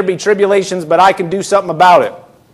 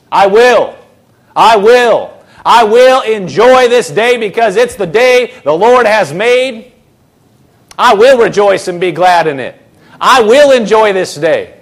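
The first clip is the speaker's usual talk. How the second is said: bold declaration; 2 semitones higher than usual. Acted. Preacher voicing a bold declaration.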